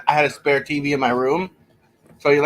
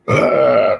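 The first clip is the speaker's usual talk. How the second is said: wincing from a paper cut; 6 dB louder than usual. Real, not acted. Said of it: "Sliced my finger".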